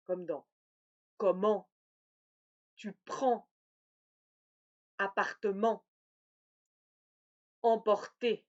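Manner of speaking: comment, prends, appartement, emporter with nasal en; nasal en demo. Shown as a demonstration. Teacher modelling words spelt en and em. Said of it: "E N ou E M".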